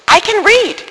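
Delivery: retelling the boss, snapped high and loud; angry boss. Retold or imitated. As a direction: throw the words back at her, irritated. Boss slams letter on desk.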